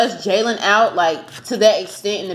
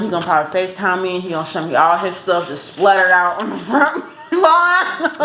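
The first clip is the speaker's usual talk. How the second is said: laughing; 2 semitones lower than usual. Real, not acted. Laughing while imagining his stuff outside.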